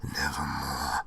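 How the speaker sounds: a lightly voiced low raven; raven's answer. Raven's reply to the pleading narrator, low and ominous. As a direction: toll the word low and flat. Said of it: "Quoth the raven".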